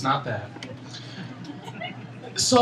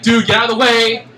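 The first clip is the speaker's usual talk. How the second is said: building from firm to loud higher yell; 5 semitones higher, 5 dB louder than usual. Retold or imitated. To drunk guys blocking the sidewalk, building yell. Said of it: "in my mind, I'm like".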